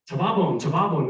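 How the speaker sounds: taBAbon, stressed on the middle syllable; mock-earnest Tababon with the accent misplaced on BA; wrong-syllable accent. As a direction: call out Tababon twice, leaning on BA. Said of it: "got the accent on the wrong syllable".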